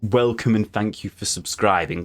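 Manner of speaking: deliberately uninspired and low-key; boring welcome. Shown as a demonstration. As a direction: say it like a bored, by-the-book channel intro. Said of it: "really boring and just say".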